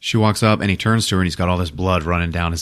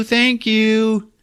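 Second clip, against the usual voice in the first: flustered thanks; 12 semitones higher than usual. Retold or imitated. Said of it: "She says".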